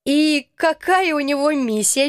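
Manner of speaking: light chirpy question; chirping bird person. Acted. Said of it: "чирикнула я".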